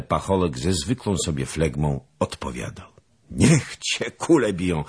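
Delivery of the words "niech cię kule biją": hearty exclamation with a different timbre; exclaiming. Acted. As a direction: cry it out in delight. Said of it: "wykrzyknął Zagloba". (radosny okrzyk)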